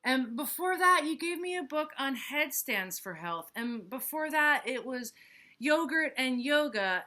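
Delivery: high, bright excitable hippo; eager hippo voice. Acted. Hippo's lines in story.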